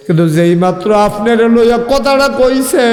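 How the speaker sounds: heartbroken lament. Acted. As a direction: wail the grief melodically to the Prophet. Heartbroken companion laments the insult.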